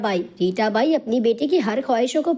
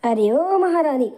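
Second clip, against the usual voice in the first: higher-pitched taunting call; mock summons; 4 semitones higher than usual. Aunt stops niece heading to kitchen, mildly taunting. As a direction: call her out with a touch of scorn.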